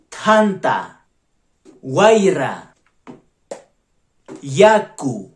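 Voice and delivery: each word said slowly and clearly for the learner; example words. Shown as a demonstration. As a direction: model every word like a teacher. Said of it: "agregaremos un ejemplo a cada una". (palabras de ejemplo pronunciadas con claridad)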